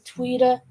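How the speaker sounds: tweeter as "tweet-uh", no final R; dropped R. Retold or imitated. Imitating kids with a twang, tweeter as "tweet-uh". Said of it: "they don't pronounce their R's".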